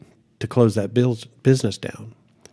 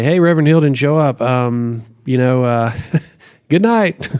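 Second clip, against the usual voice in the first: awkward laughing goodbye; 5 dB louder than usual. Retold or imitated. Awkward goodbye to inmates, retold.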